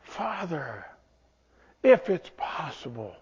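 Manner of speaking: high pleading "Abba" fading to a soft plea; Jesus pleading in the garden; crying out. Retold or imitated. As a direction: cry out to the father, then let it sink. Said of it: "you see Jesus crying out".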